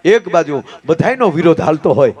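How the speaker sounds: ordinary talk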